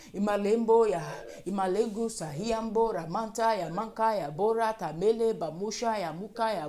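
rhythmic, chant-like stream of prayer syllables; praying in tongues. Real, not acted. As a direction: pour out the syllables in fervent, even bursts. Prays in tongues.

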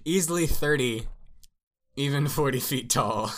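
loud, high, incredulous reread; amused mock reread. Shown as a demonstration. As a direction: read it back as if it's absurd, cracking up. Rereads the nonsensical line, amused.

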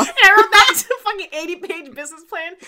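high, loud laugh breaking into the sentence; amused, laughing confession; laughing through words. Real, not acted. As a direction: tell it while cracking up, voice jumping up. Cracking up at own story.

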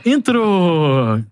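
long "entrou" with a falling end; relieved goal call. Retold or imitated. Commentator showing a colleague's catchphrase, relieved drawn-out call. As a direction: let "entrou" stretch out as a release. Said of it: "O entrô deve dar uma relaxada".

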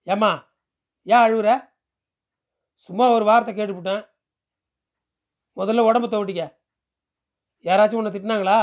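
a touch of insistent questioning; lightly voiced village man, concerned. Stranger asks a crying girl who hurt her, mildly insistent.

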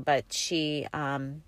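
normal talking voice

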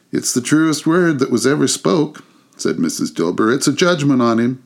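high, eager agreement; eager Mrs Dilber. A narrator's reading. Mrs Dilber agreeing with the charwoman, high and eager. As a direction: agree with relish.

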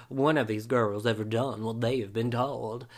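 light imitation of a serious deep South accent narrator; a hint of the show's Southern narrator, solemn. Host mimicking the reality show's narrator, light deep South accent. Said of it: "probably that's my best impression of the narrator".

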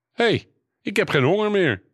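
high-pitched, astonished exclamation; amazed. Acted. Boy finds his hunger suddenly gone, amazed. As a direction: pipe up in sudden surprise.

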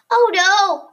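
alarmed. A narrator's reading. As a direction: gasp it out in alarm. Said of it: "I thought, alarmed".

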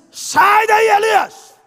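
full-force pulpit yell; booming shouted call. Retold or imitated. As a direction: yell the name across the cave mouth. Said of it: "Deus não falou assim com Elias".

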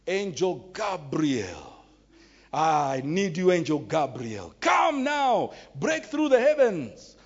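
drawn-out mock invocation of an angel, rising to a shout; mock calling. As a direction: ham up a desperate prayer calling Gabriel. Mocking people calling on angels.

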